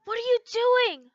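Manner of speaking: whispered name, then a sharp hissed question; shouted whisper. Acted. Levy pulls Lucy back, whisper-shouting at her. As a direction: scold in a loud whisper. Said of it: "Levy shouted in a whisper".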